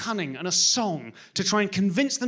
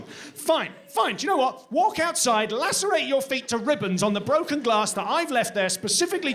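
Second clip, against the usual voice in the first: exasperated parent; 2 semitones higher than usual. Acted. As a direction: give up on the child in theatrical exasperation. Parent snaps at stubborn child.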